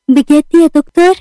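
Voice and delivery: excited. Acted. Delighted at good health news.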